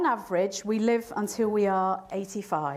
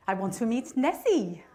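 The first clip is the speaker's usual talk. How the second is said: put-on 1 French accent; 3 semitones higher than usual.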